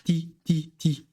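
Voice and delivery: "ti" with a clean hard T; wrong plain T. Shown as a demonstration. Teacher showing learners what we don't say, plain-T "ti". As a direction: say "ti" crisply, no ch after the T. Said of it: "mais qu'on glouche".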